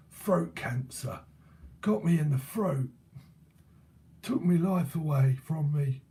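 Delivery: lightly voiced London old geezer; a hint of an old gaffer; imitated old geezer. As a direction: put on a mild geezer voice. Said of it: "like a proper old geezer".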